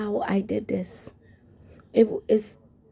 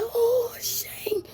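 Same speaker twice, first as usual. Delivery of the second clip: lightly voiced friend, much higher, starting in a whisper; excited old friend; 3 semitones higher than usual. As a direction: greet her like a long-lost friend with breathy delight. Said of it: "And she said".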